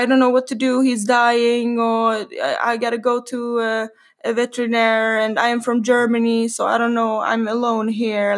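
a touch of weepy helplessness; retold crying. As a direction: imitate a distraught stranger, lightly whining. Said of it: "så börjar hon gråta".

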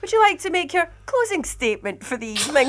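mock TV presenter asking for a closing statement; TV fashion. Dan closing the show for the candidate, mock TV host. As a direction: play the debate host, with a laugh. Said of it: "can I do it in T V fashion?".

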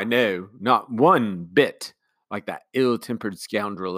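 slow, lightly voiced indignation; indignant commander. Commander denying likeness to the uncle, slow and indignant. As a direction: distance yourself from the scoundrel.

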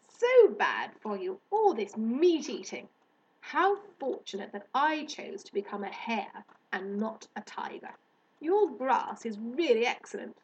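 lightly voiced superior hare, emphatic; lofty hare. Hare lecturing girl on meat eating, mildly superior. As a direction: deliver a mildly disapproving little lecture.

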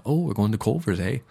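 lightly mocked Minnesota accent ending in "eh?"; a hint of a friendly Upper Midwest accent. Host imitates relatives planning a Culver's trip, light Minnesota accent. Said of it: "I find myself talking like they do".

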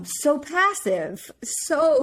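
high, slow, drawn-out words breaking into laughter; laughing lament. Real, not acted. Host laughing over how passive Romeo is, slow drawn-out giggle. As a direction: stretch it out while cracking up.

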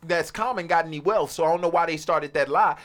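high, loud, fast rant; heated rant. Real, not acted. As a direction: push it hard and fast.

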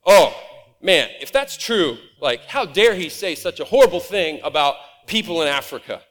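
a mock indignant gasp, then a huff; self-righteous outrage. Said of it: "get all self-righteous".

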